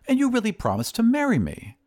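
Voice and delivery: high-pitched plea of a jilted suitor; plead, with pitch climbing high. Acted. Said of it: "pleaded the glass blower".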